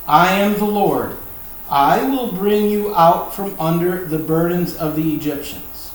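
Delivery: emphatic, measured Bible reading; scripture reading. Acted. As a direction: read God's words out with firm authority. Reads God's words from scripture.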